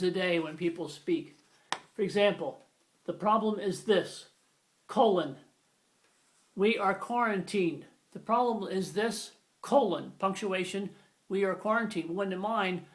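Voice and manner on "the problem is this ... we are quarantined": stilted spoken colon. Shown as a demonstration. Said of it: "you don't say".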